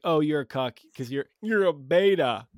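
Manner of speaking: slowed, lightly voiced sneer; a hint of a smug radio host; mild mock preacher voice; Jesse Lee Peterson impression. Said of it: "good impression of, uh, Jesse Lee Peterson".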